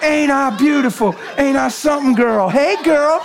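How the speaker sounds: high, proud, laughing show-off; cocky bird calling to the hen; strutting turkey. Retold or imitated. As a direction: puff up like a vain tom turkey. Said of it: "strutting his stuff".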